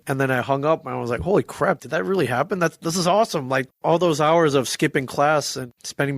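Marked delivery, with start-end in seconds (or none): 1.2-3.5 high, amazed holy crap; can't believe it happened; excited disbelief. Retold or imitated. Disbelief after the call.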